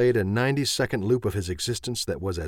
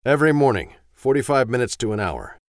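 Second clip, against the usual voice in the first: mocking echo; 3 semitones higher, 6 dB louder than usual. Wife mocking his words.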